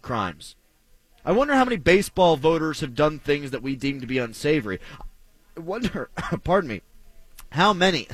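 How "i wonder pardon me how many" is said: coughing, choked up mid-sentence; choking on a drink. Real, not acted. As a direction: talk through a choking fit. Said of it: "as I'm choking here".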